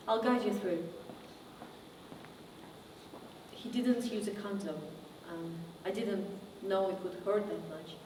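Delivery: quiet and low, with long pauses; subdued painful recollection. Acted. Survivor recounting abuse by a TV host, subdued and halting. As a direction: confide it haltingly, softly.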